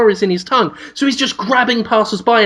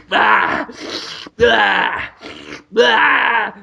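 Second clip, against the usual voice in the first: mock licking grunts; much slower than usual. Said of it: "like that".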